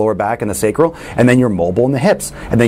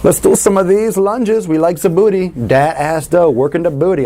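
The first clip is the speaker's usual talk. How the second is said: much higher, slow, teasing voice; playful hype voice; 8 semitones higher than usual. Pretend. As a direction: play it up like a cheeky gym hype man. Playful gym hype aside.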